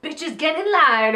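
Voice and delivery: mock-fierce drag queen bark; imagined intimidating command. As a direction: loom over them and order them into line. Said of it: "she's just like".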